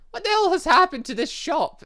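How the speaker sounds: high, loud disbelief; incredulous outburst. Real, not acted. Player baffled by the strange new shopkeeper, incredulous.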